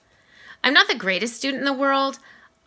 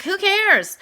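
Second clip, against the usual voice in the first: who cares; 9 semitones higher than usual. Retold or imitated. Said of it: "I'm like".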